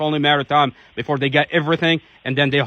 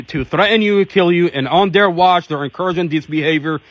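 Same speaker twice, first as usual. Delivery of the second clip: fervent outcry; 3 dB louder than usual. Real, not acted. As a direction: hammer each accusation home like a rally speech. Advocate denouncing officers, rising fervour.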